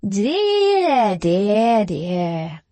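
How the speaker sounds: sugary, singsong lament; sweet regret. A narrator's reading. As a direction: exclaim it in long, falling arcs. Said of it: "exclaimed the patriarch in sweet regret".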